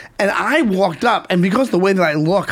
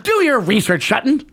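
Ken Brockman quote; 4 semitones higher than usual. Retold or imitated. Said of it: "And he goes".

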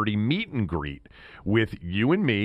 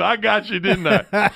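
mock gloating laugh; 9 semitones higher, 5 dB louder than usual. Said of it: "He's going".

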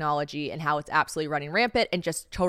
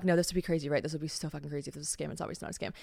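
much softer, fast private doubt; inner voice; 4 semitones lower, 8 dB quieter, much faster than usual. Retold or imitated. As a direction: mutter it to yourself.

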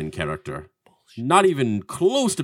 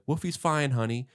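lightly voiced mom, soft and lilting; a hint of a reassuring mother; foster mother; 6 dB quieter than usual. Foster mom answering her boy, lightly imitated. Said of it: "And then she's like".

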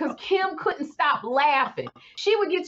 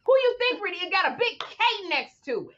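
giggling protest; 7 semitones higher than usual. Retold or imitated. Imitating Kim asking who reads the K line, giggling. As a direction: laugh through the question. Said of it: "she gonna stop and go".

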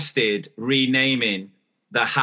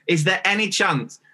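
higher, sing-song overly polite ask; mock over-polite plea; 5 semitones higher than usual. To the co-host, replaying her overly polite request. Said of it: "I must have sounded like an absolute psycho".

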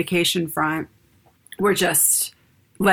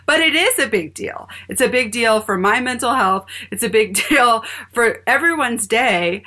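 higher, emphatic mock protest with a laugh; a touch of heated pleading; heated insistence; 4 semitones higher than usual. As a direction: insist it matters, half laughing. Her heated reply retold.

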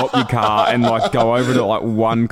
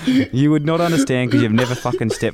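mock indignant rant; 4 semitones higher than usual. Mock quarrel over golf chat, amid laughter.

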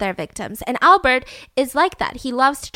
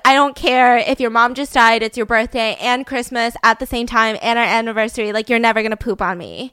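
loud refusal; 5 dB louder than usual. Pretend. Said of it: "I'd be like".

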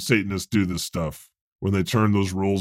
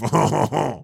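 mock French-style laugh. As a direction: ham up a theatrical French laugh. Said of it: "when I do my French laugh".

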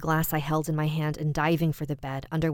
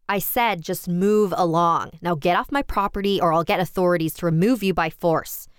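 bellowing; 2 semitones higher, 6 dB louder than usual. A narrator's reading. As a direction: roar him off the property. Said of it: "I practically bellowed".

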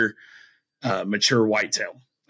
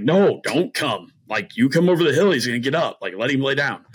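higher, insistent retold plea; urgent warning; 4 semitones higher than usual. Hunter warning his brother off by text, retold urgency. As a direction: urge him to stay put, pitch raised.

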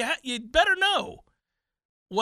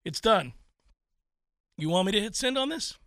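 casual. Retold or imitated. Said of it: "And there is the casual".

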